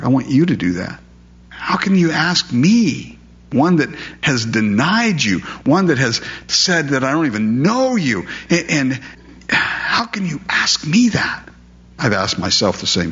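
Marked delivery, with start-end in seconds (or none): 1.5-9.0 pleading disbelief. Acted. Peter protesting his unworthiness. 9.5-11.5 whisper. Acted. Peter's protest drops to whisper.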